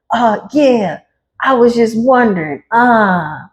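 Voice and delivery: high, timid voice cracking into a laugh; sheepish devil. Retold or imitated. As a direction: play the caught devil, sheepish and giggling.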